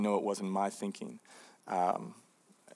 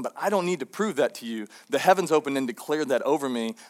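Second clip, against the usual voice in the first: confident retort; 3 semitones higher, 5 dB louder than usual. Retold or imitated. Jesus answering Satan in the desert, raised and emphatic. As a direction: firmly refuse the tempter, voice lifted.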